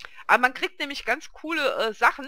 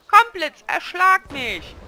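loud, high, drawn-out call; mock-desperate invocation; 9 semitones higher, 8 dB louder, slower than usual. Fed-up player calling on the lightning, mock-desperate shout. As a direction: summon the storm in hammed-up despair.

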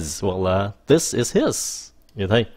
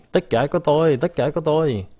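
mock greedy; 6 semitones higher than usual. Mimics greedy owner.

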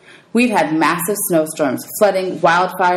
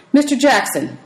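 stern teacher; 7 semitones higher than usual. Acted. Teacher calls out Percy.

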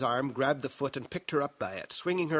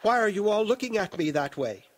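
put-on higher, distressed young woman; youthful lilting voice; 6 semitones higher, 4 dB louder than usual. A narrator's reading. Youthful Aaliyah confronting the staring room, lilting and distressed. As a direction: ask it high and wounded. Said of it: "the sweet and lilting voice of the youthful Aaliyah".

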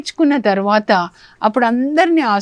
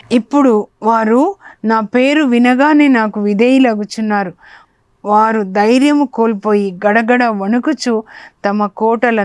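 a touch raised, fervent psalm reading; declaiming scripture demo. Shown as a demonstration. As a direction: read the psalm aloud as a model to the congregation, mildly lifted. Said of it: "మీరు ఎలా చదవాలని మీకు నేర్పించాలని".

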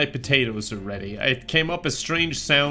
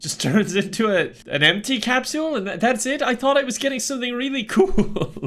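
disappointed surprise; 8 semitones higher than usual. Real, not acted. Disappointed at capsule.

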